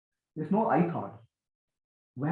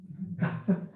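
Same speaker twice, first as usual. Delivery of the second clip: brief unvoiced chuckle; quick breathy chuckle; short laugh; 5 dB quieter than usual. Real, not acted. Amused pause in the teaching.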